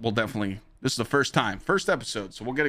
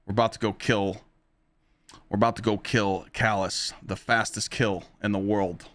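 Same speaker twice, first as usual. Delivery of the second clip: quoting Glad; 2 semitones lower than usual. Retold or imitated. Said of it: "and he says".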